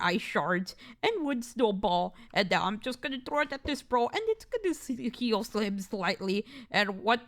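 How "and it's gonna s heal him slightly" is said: slow, stretched hissing s sounds; drawn-out s like a snake. Real, not acted. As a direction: drag out each s like a snake. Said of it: "I'm not a snake".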